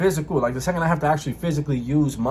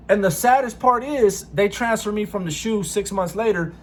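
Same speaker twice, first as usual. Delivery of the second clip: raised, indignant storytelling; 6 semitones higher than usual. Real, not acted. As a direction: tell it outraged. Telling how cellmate betrayed him.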